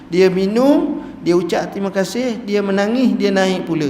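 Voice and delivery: high, lively storytelling voice, partly slowed; shepherd eagerly explains the weeping man's routine. Retold or imitated. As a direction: tell it eagerly like a herdsman who knows. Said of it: "Dia kata".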